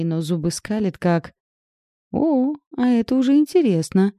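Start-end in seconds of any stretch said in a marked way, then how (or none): 2.1-4.1 higher, louder and eager; suddenly interested, lean in; perked up. Acted. Friend perks up at gossip, excited and higher. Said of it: "оживилась Катя".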